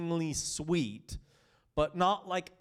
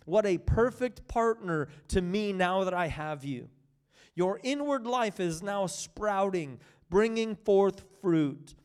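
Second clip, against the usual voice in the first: scripture reading; 3 semitones higher than usual. Acted. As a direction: read it as the bridegroom's devotion. Reads Song of Songs text.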